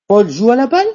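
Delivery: "Paul joue à la balle?" rising sharply on "balle"; rising question intonation. Shown as a demonstration. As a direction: end "balle" on a high rise. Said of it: "intonation montante".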